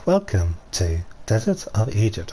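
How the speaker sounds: robot voice. Retold or imitated. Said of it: "talking like a robot when you're doing".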